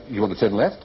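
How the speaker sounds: LEFT lifted like a question; question intonation. Shown as a demonstration. Explaining confusing Australian directions, rising question intonation. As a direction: let "left" rise into a question. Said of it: "sounds as if it's a question".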